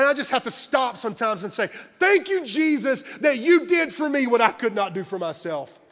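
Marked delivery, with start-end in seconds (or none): 2.0-5.8 grateful outburst. Retold or imitated. Acts out grateful outburst to Jesus.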